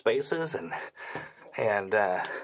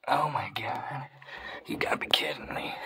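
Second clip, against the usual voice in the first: amazed whisper; 4 dB quieter than usual. Real, not acted. Amazed at cave.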